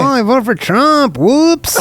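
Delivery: high, hammed-up Latino accent. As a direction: exaggerate a sing-song Latino accent. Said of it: "let's do a Latino accent".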